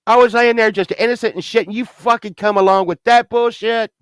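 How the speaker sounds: high, heated complaint; indignant protest. Retold or imitated. Patient accusing Death of ambushing him, indignant and high. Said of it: "And I got real mad".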